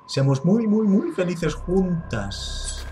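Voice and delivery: slow, drawn-out sinister sweetness; creepy coaxing double. Acted. Evil double coaxing Fran, slow and sinister. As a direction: stretch each muy like a menacing lullaby.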